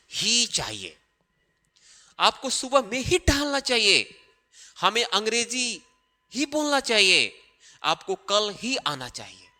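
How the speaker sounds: "ही" hit hard in every example; stress on ही. Shown as a demonstration. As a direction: lean on the word "ही" each time. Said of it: "ही चाहिए का मतलब निकल गया". ("ही" पर ज़ोर देकर बोलना)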